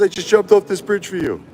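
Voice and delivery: high, strained mock outrage; mock angry friend. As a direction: squeal like a furious buddy. Friend yelling after rescue jump.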